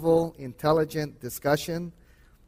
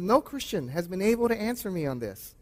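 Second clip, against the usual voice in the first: put-on higher-pitched, rough Middle Eastern accent; 4 semitones higher than usual. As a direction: imitate the caller with a light Middle Eastern accent. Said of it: "in his Middle Eastern accent".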